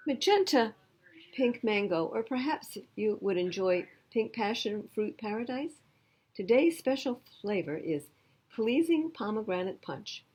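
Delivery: high, loud, cheery shopkeeper; a bright, sing-song ice cream man greeting her; Mister Swizzle voice. Acted. Ice cream man greets girl, high and cheery.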